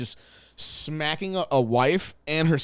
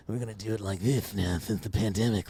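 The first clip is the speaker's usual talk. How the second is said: mock mole rat; 6 semitones lower, 4 dB quieter than usual. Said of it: "mole rat that just sits there and goes".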